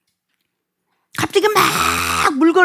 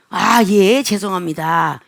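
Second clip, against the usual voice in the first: meek apology; 5 semitones lower, slower than usual. Acted. Models humble apology to rude clerk.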